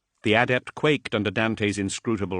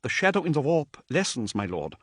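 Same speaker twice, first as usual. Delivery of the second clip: a hint of a higher, timid messenger; lightly voiced nervous adept; 7 semitones higher than usual. Terrified adept addressing Dante, lightly higher and timid. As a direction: introduce yourself with nervous awe.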